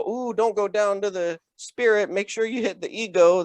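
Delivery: a hint of a dreamy guru; mock wellness voice. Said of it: "I don't go".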